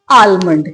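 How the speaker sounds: almond said AAL-mund with L sounded; common pronunciation. Shown as a demonstration. Teacher showing what most people say, L pronounced. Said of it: "यही बोलते हैं ना आप लोग".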